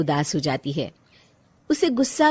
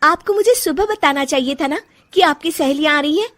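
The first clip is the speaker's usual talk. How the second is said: higher and louder, indignant; angry complaint; 7 semitones higher, 6 dB louder than usual. Acted. Bahu scolding mother-in-law over the surprise guests, angry and raised. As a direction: let the irritation spill out.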